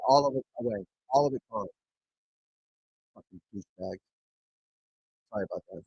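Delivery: ordinary talk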